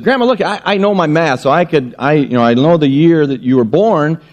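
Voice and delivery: put-on little girl. Girl explains her math.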